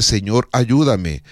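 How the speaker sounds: an unhurried humble plea; simple prayer. Shown as a demonstration. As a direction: say it slowly, as a trusting prayer. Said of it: "dile a Él".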